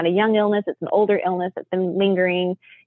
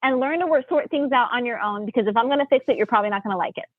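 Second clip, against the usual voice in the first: retold scolding; 5 semitones higher than usual. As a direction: play the fed-up mom laying down the law. Mom scolding the arguing kids.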